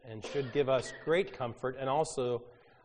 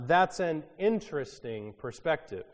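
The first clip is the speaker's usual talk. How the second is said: polite skepticism; 4 semitones higher, 5 dB louder than usual. Retold or imitated. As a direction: feign polite interest. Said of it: "one of my favorites".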